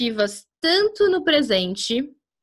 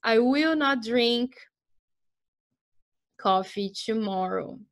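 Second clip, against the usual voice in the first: slow teacher model; slower than usual. Shown as a demonstration. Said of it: "teacher demo sentence".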